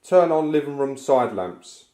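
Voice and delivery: loud, slow, clear command to the device. Shown as a demonstration. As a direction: speak slowly and clearly to the device. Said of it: "So as an example".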